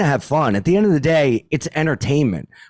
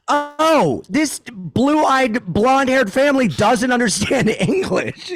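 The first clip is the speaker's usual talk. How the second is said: higher, sing-song mock of a clueless tourist family; lightly exaggerated mockery of confused visitors, pitched up; 10 semitones higher, slower than usual. Mocking tourists who don't get jokes.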